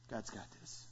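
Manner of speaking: God's got this breathed very softly, almost a whisper; hushed refrain. Shown as a demonstration. Pastor repeats his refrain hushed for the congregation. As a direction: drop the voice to nearly nothing on God's got this.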